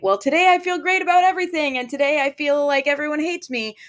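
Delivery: high mock-emotional swings; hammed-up fickle feelings; moody overreactor. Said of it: "emotional truth that might be a moving target".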